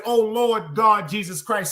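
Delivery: slow drawn-out mock wail; mock cry to God. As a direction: stretch it like a woman crying out. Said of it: "You said".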